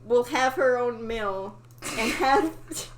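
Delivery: put-on loud, slow old-timey plea; hammed-up fisherman. Reading the fisherman's request to the fish, hammy. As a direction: ham up the fisherman's old words. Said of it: "and said".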